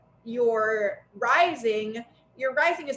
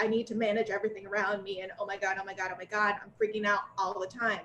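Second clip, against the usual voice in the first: fast, softer, lightly voiced panicky control freak; Virgo moon impersonation; 2 semitones lower, 5 dB quieter, much faster than usual. Friend mocking an anxious Virgo moon, fast and hushed. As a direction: rattle it off like a hidden worrier losing it. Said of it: "my little Virgo moon impersonation".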